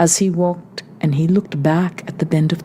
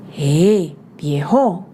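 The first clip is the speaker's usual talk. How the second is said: shout; much slower than usual. A narrator's reading. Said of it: "she shouted".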